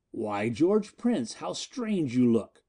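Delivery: slow, mocking drawl; sardonic. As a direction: savour each word with scorn. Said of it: "Miko's sardonic voice came again".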